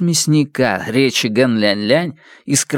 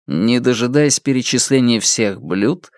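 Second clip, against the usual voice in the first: ordinary delivery, nothing marked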